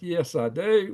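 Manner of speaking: lightly voiced sweet waitress; sweet waitress reply. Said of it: "Real sweet".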